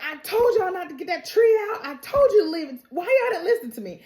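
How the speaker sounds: high-pitched whiny complaint; mock exasperation. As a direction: scold them in acted exasperation. Acting out a character scolding the others.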